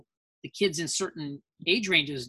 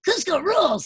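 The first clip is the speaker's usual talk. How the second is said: much higher, louder cartoon voice; Guaca character voice; 13 semitones higher, 4 dB louder than usual. Voice actor demos his cartoon role for his daughter, high squeaky. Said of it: "And I'll be like".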